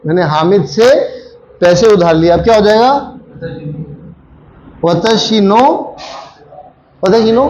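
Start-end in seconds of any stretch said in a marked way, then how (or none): 4.8-6.0 slow drawn-out echo. Shown as a demonstration. Teacher echoing a student's answer, slow and drawn out. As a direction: stretch out वतशी नो slowly, as if questioning it. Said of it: "वतशी नो किसने कहा?".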